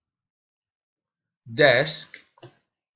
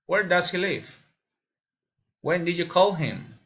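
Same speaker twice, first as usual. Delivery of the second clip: "live" and "him" fall at the end of each question; falling intonation; 3 semitones higher than usual. Shown as a demonstration. Learner demonstrating special questions, falling intonation. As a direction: let the pitch drop on "live" and "him". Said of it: "following intonation".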